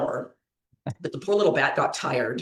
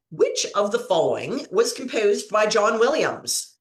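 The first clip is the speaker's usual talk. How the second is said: quiz host; 3 semitones higher than usual. Acted. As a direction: lay out the choices like a game-show host. Quiz host reads question.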